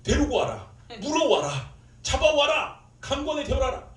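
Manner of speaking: loud, high barked commands; angry shouting. Retold or imitated. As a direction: re-enact fury, shouting out orders. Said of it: "처음에는 화가 났죠". (화가 나서 크게 호통치듯)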